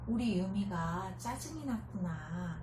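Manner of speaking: put-on gently name the child's feeling; tender. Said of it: "다정하게". (다정하고 느린 엄마 말투)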